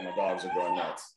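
ordinary talk

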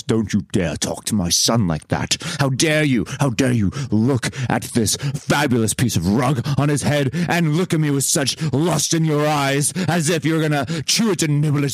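lightly voiced indignant father; a hint of a theatrical, outraged dad; father's voice. Father scolding someone who eyed the rug, mock indignation. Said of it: "speak to you in my father's voice".

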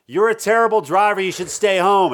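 mock road-rage yell. Shown as a demonstration. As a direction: call it out high to another car. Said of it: "and just yell".

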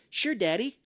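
put-on high, sweet little-kid reply; cutesy imitation; mock childish voice. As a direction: chirp it like a small child. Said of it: "And he goes".

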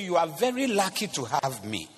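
a hint of a proud girlfriend, stress on "very"; lightly voiced boastful girlfriend. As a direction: quote her smugly, barely changing the voice. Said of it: "this girl will talk and say".

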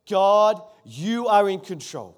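God called out loud, the rest slow and firm; a loud slow proclamation together with the congregation; loud declaration. Real, not acted. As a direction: lead the church in a proclaimed response. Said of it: "Would you say it with me?".

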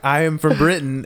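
lightly imitated British accent. Retelling young actress claiming to be British, British accent. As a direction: put on a touch of British. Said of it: "could do a full British accent".

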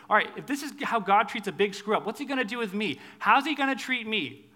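a listener afraid of God's judgment; anxious sinner. Retold or imitated. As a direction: voice a frightened screw-up. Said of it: "All of us are in this passage saying".

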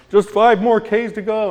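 forced encouragement. Retold or imitated. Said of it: "and I'm like".

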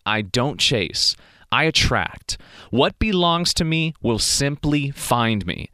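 slow, steady affirmation, spoken like a mantra; calm affirmation. Shown as a demonstration. Coaching viewers through a morning affirmation, slow and calm. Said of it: "I want you to sit there and say".

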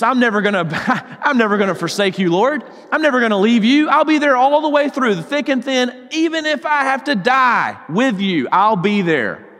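mildly hammed-up pledge of loyalty, pitch climbing; quick, rising mock bravado; boastful vow. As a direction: imitate an overconfident disciple swearing devotion. Acting out Peter's boastful vow.

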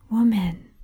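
gentle, respectful repeated call; soft, gentle, respectful. A narrator's reading. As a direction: call to her tenderly, without force. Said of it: "It was so soft, in that gentle".

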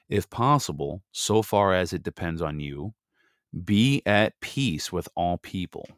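earnest Bible reading voice; scripture reading. Acted. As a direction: read it like a lesson in church.

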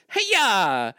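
high, loud sword-swing yell; playful attack shout; mock battle cry. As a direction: yell it like a cartoon karate chop. Acting Crota's sword swing.

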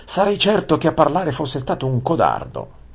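high, loud seething rage; through gritted teeth. A narrator's reading. Prince insults his father as a coward, enraged. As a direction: grind out the insult at your father. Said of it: "digrignando i denti per la rabbia".

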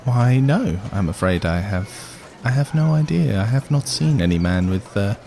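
measured, courteous dwarf voice; soft-spoken dwarf. Acted. Dwarf asked about red-haired man, soft-spoken. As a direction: speak as a gently puzzled dwarf. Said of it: "it's a very soft-spoken dwarf".

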